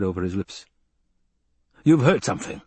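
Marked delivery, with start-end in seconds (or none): 1.8-2.6 sharp raised snap; impatient raised snap; snapped. Acted. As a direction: snap it at him, higher. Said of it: "the Baron snapped".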